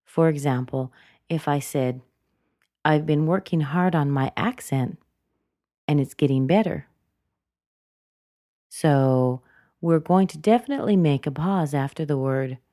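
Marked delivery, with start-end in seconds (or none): 2.8-6.9 "accent" nudged up, "better" up then dropped; rise and fall intonation. Shown as a demonstration. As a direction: pause after "accent", let "better" fall to finish. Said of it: "what happens with the intonation".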